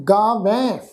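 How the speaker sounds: ਗਾਵੈਂ ending in an open nasal ai; blended nasal ending. Shown as a demonstration. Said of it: "ਮਿਲਵੀ tone ਦੇ ਵਿੱਚ ਉਚਾਰਨ ਹੋਵੇਗਾ". (ਗਾਵੈਂ ਦਾ ਮਿਲਵੀਂ ਨਾਸਿਕ ਧੁਨੀ ਵਿੱਚ ਉਚਾਰਨ)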